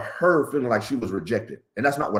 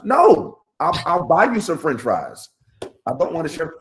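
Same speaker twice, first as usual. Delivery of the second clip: mock refusal; 6 semitones higher, 3 dB louder than usual. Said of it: "retelling refusing his wife".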